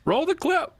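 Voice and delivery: announcer voice. Pretend. Mock dramatic command.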